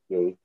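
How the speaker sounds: ye for you, Irish style; Northern Irish ye said in place of you; local ye. Shown as a demonstration. Explaining how locals actually say you. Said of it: "'cause we would say".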